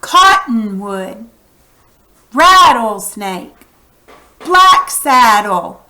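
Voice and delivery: slow Cottonwood, rattlesnake, Black saddle with COT, RAT, BLACK strongest; stress on first syllable. Shown as a demonstration. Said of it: "the very first syllable has the primary accent".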